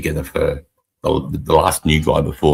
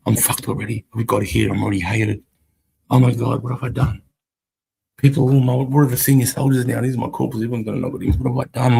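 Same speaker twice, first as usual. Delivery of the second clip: much higher panicked inner voice; panicking; 7 semitones higher than usual. Retold or imitated. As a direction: let the fear run away with you. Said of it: "reliving panic".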